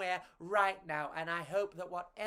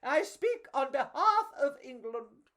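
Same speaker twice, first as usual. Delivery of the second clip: higher, louder slow proclamation; crowd roar; 7 semitones higher, 4 dB louder than usual. Acted. The crowd roaring to honour the heroes. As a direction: proclaim it grandly. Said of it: "the big crowd roared".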